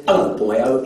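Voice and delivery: imitated Welsh accent. Welsh client arriving at the coach's office, imitated Welsh accent. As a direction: greet with a put-on Welsh lilt. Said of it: "spoke with a deep Welsh accent".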